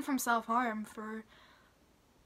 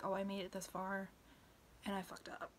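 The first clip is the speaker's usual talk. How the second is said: dropping to a whisper, deflated; whispered self-blame after a relapse; defeated inner voice; 3 semitones lower, 10 dB quieter than usual. Retold or imitated. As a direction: let it sink into a whispered letdown. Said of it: "then it's like".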